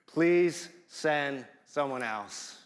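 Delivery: slow, polite, measured request; polite plea. Retold or imitated. Moses politely asking God, slow and courteous. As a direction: ask courteously, slow and restrained. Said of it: "he says it so politely".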